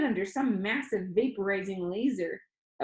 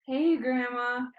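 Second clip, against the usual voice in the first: 1 feigned innocence; 4 semitones higher, slower than usual. Acted. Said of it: "tried to sound like I had barely heard her".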